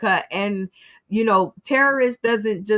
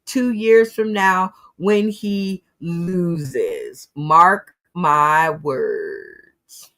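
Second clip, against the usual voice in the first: very slow, lower, drawn-out mock prophecy; ominous warning; 4 semitones lower, much slower than usual. Host signing off to viewers with a slow ominous prophecy. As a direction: let each word land like a doom-laden prediction.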